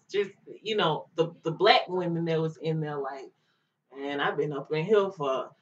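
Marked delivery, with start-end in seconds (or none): 3.9-5.5 talking real hard. Retold or imitated. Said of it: "just real hard".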